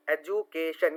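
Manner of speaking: "एजुकेशन" in separate beats, ए-जु, के, शन; syllable by syllable. Shown as a demonstration. Teacher recounting syllables for students, "एजुकेशन" broken up. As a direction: count out "एजुकेशन" piece by piece. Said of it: "तोड़ तोड़ के word को पढ़ना".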